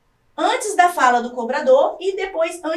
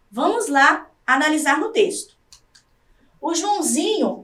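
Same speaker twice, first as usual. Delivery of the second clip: ordinary talk, nothing marked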